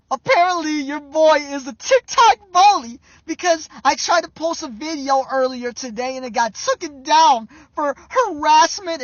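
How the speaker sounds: loud, sneering mock TikTok rant; mock smug rant. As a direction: play a smug, self-righteous poster. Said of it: "That's how you should have responded".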